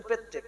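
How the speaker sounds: পেত্তেক, the village elders' way; old pronunciation. Retold or imitated. Imitating grandfather's word পেত্তেক. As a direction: say পেত্তেক with a doubled t, dropping the r of প্রত্যেক. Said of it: "বলতেন পেত্তেক".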